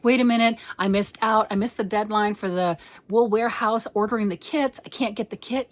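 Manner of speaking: lightly hammed-up viewer panic; mock alarm. Viewer who thinks she missed the kit deadline, mock alarm. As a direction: act out a mildly flustered customer.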